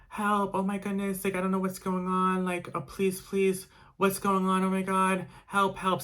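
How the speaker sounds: high-pitched frantic pleas, mildly imitated; mock panicked scream. Mimicking the screaming woman upstairs, high frantic pleading. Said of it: "she's, like, screaming".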